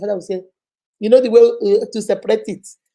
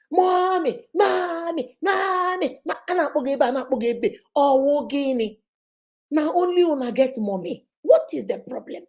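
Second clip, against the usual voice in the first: put-on children calling mommy; 4 semitones higher than usual. Children calling, retold lament.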